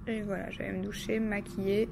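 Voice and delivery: quick unvoiced whisper. Real, not acted. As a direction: whisper it fast under your breath.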